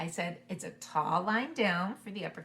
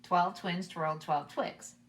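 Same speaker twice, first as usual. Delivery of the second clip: a little faster; much slower than usual. Shown as a demonstration. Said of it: "just a little bit faster".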